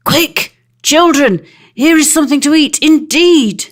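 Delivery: put-on high, loud, fast sharp call to her young; the otter cries out sharply; sharp cry. A narrator's reading. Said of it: "cried in the water language sharply".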